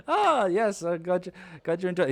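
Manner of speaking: high, loud juggler playing to the crowd; flustered showman. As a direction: cover the fumbling with strained cheer. GM voices flustered street juggler.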